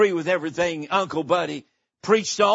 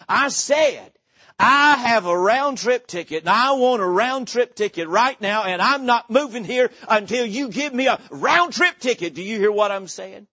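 angry demand; 3 semitones higher than usual. Retold or imitated. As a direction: push back hard at the ticket clerk. Uncle Buddy loses temper at clerk.

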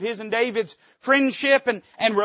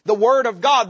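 "God" hit louder with falling tune; stressed God; 3 semitones higher, 6 dB louder than usual. Acted. Preacher drives home to congregation, "God" punched loud. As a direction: lean hard on "God" and let it drop. Preacher repeats phrase, builds.

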